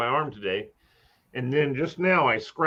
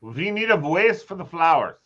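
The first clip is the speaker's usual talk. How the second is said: put-on German accent. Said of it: "How about this?".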